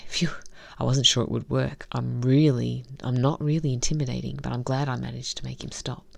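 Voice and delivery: reading a visual novel story aloud, evenly; story narration. Acted. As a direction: narrate the scenes and voice the heroine lightly.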